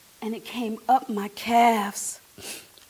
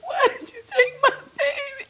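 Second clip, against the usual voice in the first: crying out to God; 13 semitones higher, faster than usual. Retold or imitated. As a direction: break down as you ask God why. Grief-stricken plea to God.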